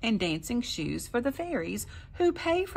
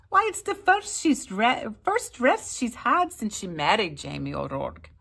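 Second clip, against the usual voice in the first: high, louder gossiping woman; village gossip; 5 semitones higher, 5 dB louder than usual. A narrator's reading. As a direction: tut over her rest. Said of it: "the village women said".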